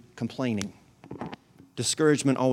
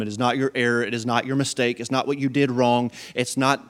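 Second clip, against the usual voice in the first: ordinary talk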